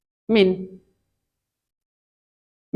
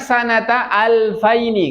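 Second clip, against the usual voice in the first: model reading; 5 semitones higher, slower than usual. Shown as a demonstration. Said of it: "cara bacanya".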